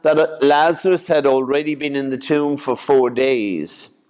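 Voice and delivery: measured, clear scripture reading; Gospel reading. Acted. Priest reading the raising of Lazarus to a congregation, measured Gospel reading. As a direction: read it out as formal scripture, phrase by phrase.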